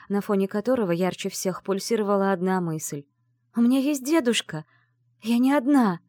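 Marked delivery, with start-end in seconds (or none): 3.5-6.0 high, louder burst of joy; joyful thought. Acted. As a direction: let the relief burst out. Радостная мысль героини. (радостно, громче и выше)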